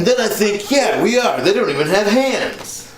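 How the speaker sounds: high, worked-up rant; getting carried away, pitch climbing; excited rant. Real, not acted. Ranting about dogs, worked up.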